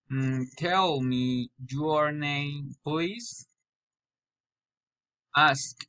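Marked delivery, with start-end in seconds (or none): 0.6-3.5 slow request with "please" rising; level words, then lift "please" at the end; rising intonation. Shown as a demonstration. Learner practising polite requests, rising on "please". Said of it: "Question raising intonation".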